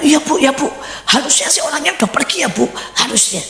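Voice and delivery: casual mock reassurance; dismissive reply. Man brushing off the woman.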